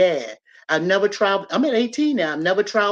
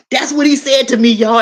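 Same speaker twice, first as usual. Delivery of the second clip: much higher and louder, thrilled disbelief; excited exclaim; 6 semitones higher, 10 dB louder than usual. Real, not acted. Telling the audience what granddad said, high excited exclaim. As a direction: burst out with delight to the crowd.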